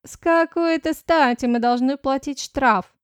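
outraged at the fine; indignant. Acted. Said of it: "возмутилась Жадет". (возмущённо)

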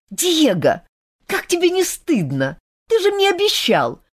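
high, pleading reproach; upset girl scolding a friend; scolding young woman. A narrator's reading. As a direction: remind him of his broken promise. Olga scolds Diego.

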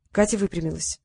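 ordinary delivery, nothing marked

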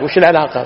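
colloquial وش العلاقة with a after the ع; common mistaken form. Retold or imitated. Teacher quotes colloquial usage, العلاقة with fatha. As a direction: say العلاقة as "al-ʿalaqa". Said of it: "هذا غلط".

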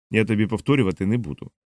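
ordinary delivery, nothing marked

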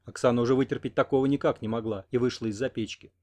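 usual speaking voice

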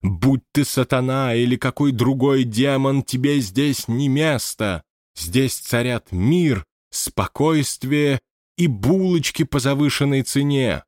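high, slow, grand declaration; mock exorcism. A narrator's reading. Scene: medium commanding the spirit, grandiose. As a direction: banish the demon with pomp.

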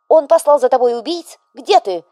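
loud, high, alarmed mother; a fussing widow working herself into a rage; mother boiling over. A narrator's reading. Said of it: "Вдова стала закипать". (встревоженная мать, закипающая)

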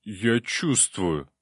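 slow, frightened bubbling creature voice; frightened gurgling demon. A narrator's reading. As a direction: gurgle it out in fear. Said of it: "испуганно пробулькал Ксантип".

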